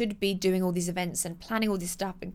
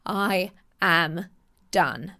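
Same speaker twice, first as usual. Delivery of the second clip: mock exhausted complaint; imitating someone fed up; much slower than usual. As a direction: sound completely done with everything. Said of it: "you're like".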